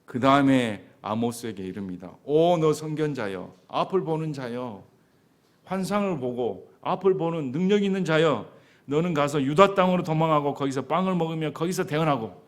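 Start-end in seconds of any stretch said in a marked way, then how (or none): 2.2-12.4 loud sneering praise of the seer; mocking flattery. Priest Amaziah mocking Amos, loud sarcastic flattery. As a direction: call him seer with scorn.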